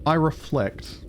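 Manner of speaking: calm documentary narrator. Acted. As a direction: narrate it like a measured storyteller. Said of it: "I'm just your narrator".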